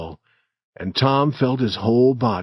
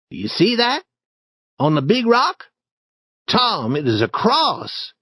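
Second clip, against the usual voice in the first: put-on higher boyish voice, hushed excitement; an excited boy whispering discoveries; Tom; 9 semitones higher than usual. Tom shows Huck the cross in the cave, excited higher voice.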